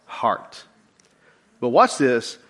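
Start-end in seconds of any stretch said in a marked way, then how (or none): 0.0-0.6 breathy whispered final word; hushed reveal. Acted. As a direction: drop to a whisper on the key word. Punchline of scripture quote.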